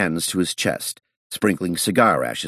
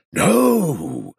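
fearful; 12 semitones higher, 4 dB louder than usual. A narrator's reading. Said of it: "he said fearfully".

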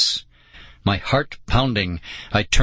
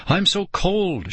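narrated shout; 9 semitones higher, slower than usual. A narrator's reading. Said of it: "she shouted".

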